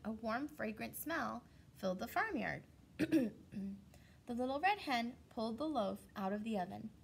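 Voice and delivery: put-on reading a story to children; storybook reading voice; story narration. A narrator's reading. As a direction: tell it gently to the class. Teacher reads story to class.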